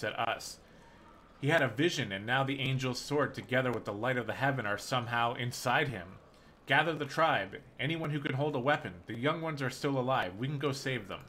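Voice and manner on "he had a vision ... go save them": rally the tribe, insistent; urgent rallying plea. Acted. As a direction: hero urging the chief to gather the tribe, loud. Hero urging the chief.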